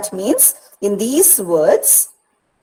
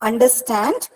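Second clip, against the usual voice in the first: "Understand" with stand stressed; stress on last syllable; 3 semitones higher than usual. Shown as a demonstration. Teacher showing an anapaest, "Understand" stressed on stand. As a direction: go lightly over Under, land on stand in "Understand". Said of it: "stand is stressed".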